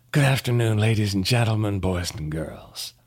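conductor's announcement. Acted. Conductor addressing passengers over the PA, mock announcement voice. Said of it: "got on the P A system and announced".

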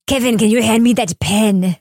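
clumsy mock French accent; bad French accent. Podcast host mocking the film actor's delivery, bad French accent. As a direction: put on a poor French accent. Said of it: "It was the worst French accent".

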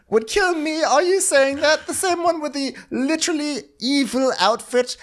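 high-pitched disbelieving questions; mock incredulity. King hears his brother would kill him, incredulous.

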